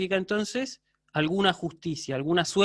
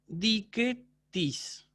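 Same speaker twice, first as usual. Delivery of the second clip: "dique tis" slowly, with "tis" unstressed after "dique"; unaccented TIS; 3 semitones higher, 4 dB quieter, much slower than usual. Shown as a demonstration. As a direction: let "tis" follow "dique" without an accent. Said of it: "sin acento en el tis".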